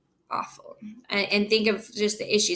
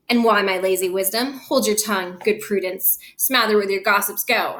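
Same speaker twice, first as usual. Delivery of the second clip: angry father. Acted. Capulet silences nurse.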